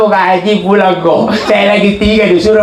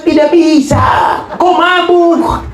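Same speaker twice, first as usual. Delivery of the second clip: much higher, slow, shouted refusal; imam's shout; 9 semitones higher, slower than usual. Retold or imitated. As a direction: bark the refusal at the drunk. Imam refuses the drunk man. (imam membentak dengan keras)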